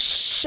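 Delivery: imitated shush; a retold "shh" at grown-ups. Mother imitates her child shushing grown-ups, shushing. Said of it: "like, shushing them".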